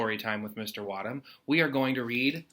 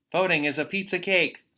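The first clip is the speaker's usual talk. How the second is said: higher, louder goofy read; playful; 6 semitones higher, 6 dB louder than usual. Acted. Teacher reading a kid's silly quote, playful. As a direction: land the silly line with a grin.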